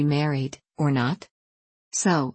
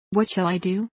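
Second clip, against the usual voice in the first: frightened cry; 4 semitones higher than usual. Acted. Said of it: "she cried".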